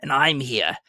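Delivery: giddy, teary relief; tearful joy. A narrator's reading. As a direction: laugh through tears of relief. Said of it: "sobbing violently in his conflict with the spirits".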